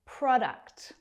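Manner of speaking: Product said without sounding out the t; crisp model of Product with an unsounded t; silent t. Shown as a demonstration. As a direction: demonstrate Product, leaving the t unpronounced. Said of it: "without pronouncing the t sound".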